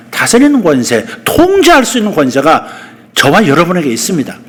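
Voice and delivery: usual speaking voice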